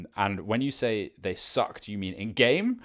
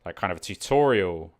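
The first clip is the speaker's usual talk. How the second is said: mic bump; 7 dB louder than usual. Real, not acted. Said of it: "Sorry, I keep hitting the microphone".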